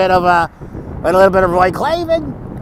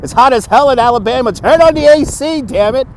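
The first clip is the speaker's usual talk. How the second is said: nasal-free goofy nerd voice, pitched up; nerdy voice; 5 semitones higher than usual. Acted. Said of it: "It's my nerdy voice".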